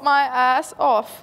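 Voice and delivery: My ass off said very slowly; slow repeat. Shown as a demonstration. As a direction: drag out My ass off word by word. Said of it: "Now repeat five times".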